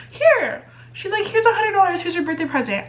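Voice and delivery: a hint of a generous mom saying here you go; friend's mom to the rescue. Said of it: "Mama Jill comes to the rescue and she's like".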